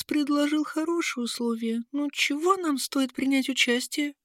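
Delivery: high thin voice for a small creature; squeaky little voice; squeaky character voice. A narrator's reading. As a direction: pitch it way up, timid.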